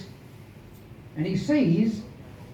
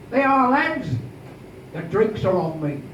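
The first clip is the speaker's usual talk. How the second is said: loud announcement; 2 semitones higher than usual. Acted. Underwood announces to a hundred sailors the drinks are on him, loud. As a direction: boom it across the room. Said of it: "with a loud voice he says".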